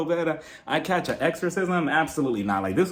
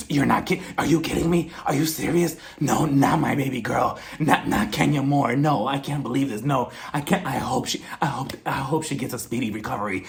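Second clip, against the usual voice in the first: imitating gushing, fake concern in a lower voice; a lower, theatrically worried impression; mock concern; 3 semitones lower than usual. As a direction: play up phony shock and worry. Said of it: "she has this great concern".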